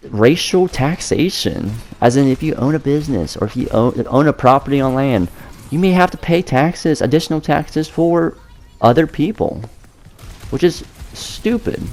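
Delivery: tight, high strained voice; strangled voice. Real, not acted. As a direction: squeeze the words out high, strangled. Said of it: "you sound like you're being strangled right now".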